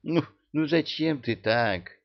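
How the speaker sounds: reproachful. A narrator's reading. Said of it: "укорила".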